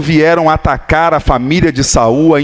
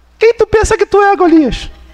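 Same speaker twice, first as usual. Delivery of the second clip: very high, jokey comedian voice. Retelling David's reply to Goliath, imitating a comedian. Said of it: "Aí tô imitando o comediante também".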